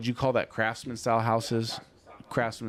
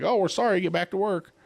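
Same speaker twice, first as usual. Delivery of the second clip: mock office voice; 11 semitones higher, 4 dB louder than usual. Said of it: "they're like".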